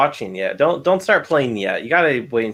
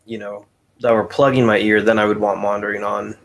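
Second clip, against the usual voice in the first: talking while chewing; words round a bite of food; mouth full; 2 semitones lower than usual. Real, not acted. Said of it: "can you guys hear me chewing?".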